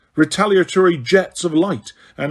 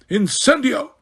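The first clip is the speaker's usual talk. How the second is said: yelled spell; 8 semitones higher than usual. A narrator's reading. Huge Death Eater setting the hut alight, yelled spell. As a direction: spell cried high, a different voice. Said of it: "behind him yelled".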